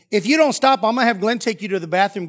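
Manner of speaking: acted-out parental warning; warning mother. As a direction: imitate an exasperated mom laying down a threat. Mother threatening a misbehaving child.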